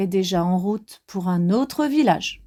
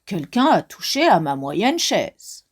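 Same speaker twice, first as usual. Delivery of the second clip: irritated; 4 semitones lower than usual. Acted. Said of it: "d'une voix irritée".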